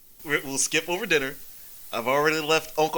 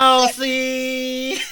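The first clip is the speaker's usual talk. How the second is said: put-on higher, louder drunk call; drunken shout; 7 semitones higher, 6 dB louder than usual. Drunk hero calling out for the mousy assistant. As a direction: blurt the name out.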